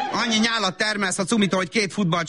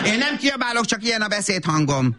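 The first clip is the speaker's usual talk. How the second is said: mildly raised, defensive tone; defensive mother; 4 semitones higher than usual. Acted. Mother justifying herself to her child, defensive. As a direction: deny it in a high insistent voice. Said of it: "Anya azért kiabált".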